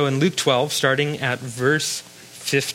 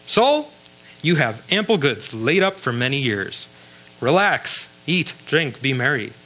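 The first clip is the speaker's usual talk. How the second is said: lightly voiced self-satisfied rich fool; a rich man pleased with himself, mildly acted; hint of a smug rich man. Rich fool talks to his soul.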